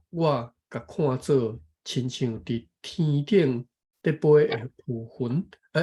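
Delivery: measured, careful reading of a text; reading aloud. Real, not acted. Taking a turn to read the passage, careful reading aloud. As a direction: read it out phrase by phrase.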